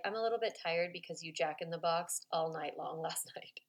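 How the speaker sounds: whispered with a laugh, worn out; tired parent's joking whisper; hushed, laughing tired aside. Retold or imitated.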